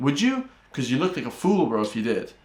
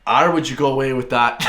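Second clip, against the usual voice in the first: put-on country Irish accent; broad, teasing Irish accent; 4 dB louder than usual. Shown as a demonstration. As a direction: lay on a playful Irish brogue. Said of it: "the flippin' Irish accent comes out in me".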